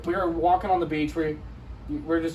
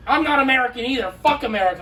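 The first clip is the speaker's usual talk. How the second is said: higher-pitched imitation of a ranting stranger; mock angry rant; 5 semitones higher than usual. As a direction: play her indignant outburst. Retold lady ranting at the group.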